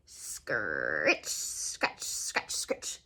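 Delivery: rasping scritch scratch, whispered and low; imitated hoe noise. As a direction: scrape out the hoe sounds. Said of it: "he heard the noise of a hoe".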